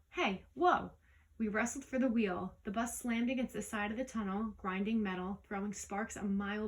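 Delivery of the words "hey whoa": loud, high startled yell; driver's yell. A narrator's reading. Bus driver yelling as the wheel is grabbed, loud startled shout. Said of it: "the driver yelled".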